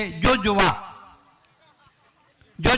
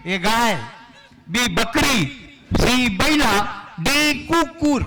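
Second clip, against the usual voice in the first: quiz options; 4 semitones higher, slower than usual. Pretend. Host reads answer options.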